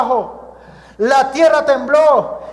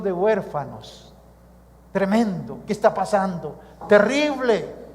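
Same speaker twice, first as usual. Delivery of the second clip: mock dismayed bystander; 6 semitones lower, 9 dB quieter than usual. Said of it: "alguien diría".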